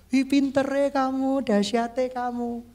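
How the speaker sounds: slow, drawn-out gushing compliment; imitated admiring friend; mock flattering praise. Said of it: "kata-katanya kadang meninggikan kita".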